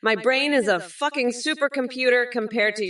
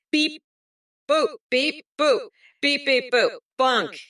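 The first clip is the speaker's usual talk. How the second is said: higher beep-boop robot chant; 5 semitones higher than usual. Acted. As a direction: play a beeping robot singing the anthem. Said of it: "patriotic robot extravaganza".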